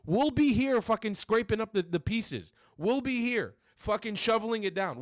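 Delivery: loud furious shouting, pitch pushed high; real angry rant. Real, not acted. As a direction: spit out every insult at full volume. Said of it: "I get fucking angry".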